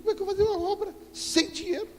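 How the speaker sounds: high, fast anxious question; a worried cry from the past, quick and high; retold panic. Retold panic over money. (pergunta aflita, alta e rápida)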